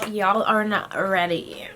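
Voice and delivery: slow, hammed-up American drawl; a playful, badly faked American accent. Vlogger clowning for her friend, bad American accent. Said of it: "My American accent is so shit".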